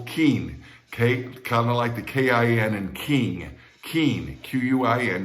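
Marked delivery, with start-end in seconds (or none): 0.0-0.6 "quin" said like "keen"; first syllable alone. Shown as a demonstration. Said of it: "First syllable". 3.9-4.4 "Quin" said with a K and no W; "Quin" as one syllable, U left silent. Shown as a demonstration. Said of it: "don't pronounce the U".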